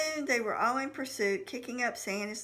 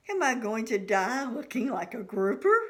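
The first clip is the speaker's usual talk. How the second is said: panicked; 7 dB louder than usual. A narrator's reading. Panicked, fearing death.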